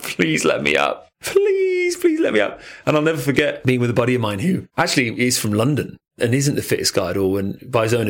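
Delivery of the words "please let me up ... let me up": desperate pleading. Retold or imitated. Held under a wave, begging to surface, desperate high plea. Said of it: "you're like".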